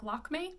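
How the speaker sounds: "Lakme" as LAHK-may, looser final vowel; Anglicised reading. Shown as a demonstration. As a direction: say "Lakme" as it looks to English readers. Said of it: "looks like".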